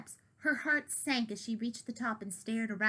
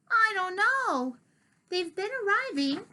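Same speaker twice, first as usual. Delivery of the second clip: put-on gruff old cat; 10 semitones higher, 5 dB louder than usual. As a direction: growl it out as old Diggory. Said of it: "So Diggory says".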